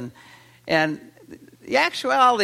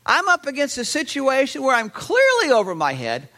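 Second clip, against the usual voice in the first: desperate father; 5 semitones higher than usual. Retold or imitated. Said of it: "as if the father is saying".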